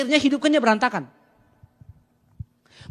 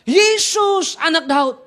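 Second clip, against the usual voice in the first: drawn-out cry; 4 semitones higher, 4 dB louder, much slower than usual. Shown as a demonstration. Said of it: "ambil waktu untuk berseru".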